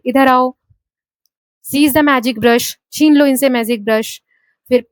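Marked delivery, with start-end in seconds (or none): 1.7-2.7 "Seize" stressed, "brush" falling; slow command, punch "Seize" and let "brush" fall. Shown as a demonstration. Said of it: "सीज को हम थोड़ा सा तेज बोल रहे हैं".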